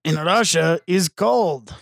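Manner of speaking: slow mock-Russian accent; lightly hammed Russian-accented English. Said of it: "antebellum Russia".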